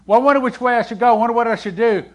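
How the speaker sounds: anxious wondering. Retold or imitated. Worshipper wondering aloud.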